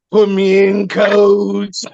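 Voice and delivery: cartoonish Robot Chicken impression; squeaky comic cartoon voice. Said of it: "the robot chicken voice".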